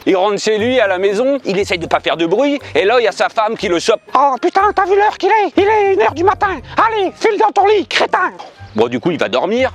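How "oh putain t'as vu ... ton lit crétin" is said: high, scolding wife's voice. Acted. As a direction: scold him like an angry wife. Wife scolds drunk husband in joke.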